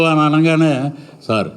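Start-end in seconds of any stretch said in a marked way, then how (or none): 1.3-1.5 timid pleading. Acted. Timid suspect pleading with shouting officer.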